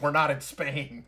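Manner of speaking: repeated shout, high and loud; yelled retort. Retold or imitated. Game master voicing the crew's response, yelled retort. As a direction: call it out as the boat crew's reply. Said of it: "Their response is".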